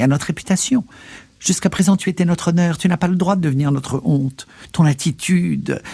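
high-pitched, worked-up reproach; indignant uncle pitched well up; agitated scolding. A narrator's reading. Uncle scolds his nephew.

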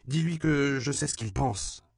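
high yelp at her brother; high, sharp child's cry; yelping girl. A narrator's reading. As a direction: yap it out like an upset little girl. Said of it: "glapit-elle à son frère".

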